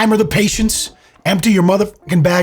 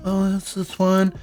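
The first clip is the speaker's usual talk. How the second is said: high, slow, innocent fake voice; mock sneaky shoplifter; 7 semitones higher than usual. Host mocking the shoplifter, high innocent put-on voice. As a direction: play the sly thief, faking innocence. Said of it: "and she's like".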